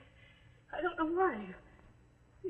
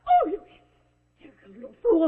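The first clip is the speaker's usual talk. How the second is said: high, loud contempt; furious outburst; 5 semitones higher, 8 dB louder than usual. Acted. Woman turning on the wife, furious. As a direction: spit it at her.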